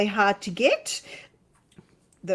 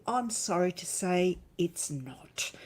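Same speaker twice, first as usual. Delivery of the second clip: whispering; 2 semitones lower, 6 dB quieter than usual. Acted. Whispered warning in reading.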